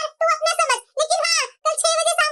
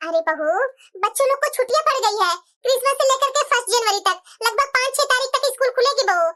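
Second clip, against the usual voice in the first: lightly voiced mother-in-law; 2 semitones lower than usual. Mother-in-law explains to daughter-in-law.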